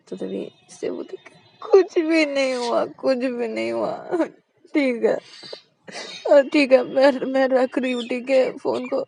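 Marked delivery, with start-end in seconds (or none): 1.6-9.0 sulky hurt. A narrator's reading. Shreya sulking.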